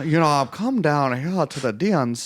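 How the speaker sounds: lightly put-on stump speech voice; mock Kamala speech voice. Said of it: "President Card voice".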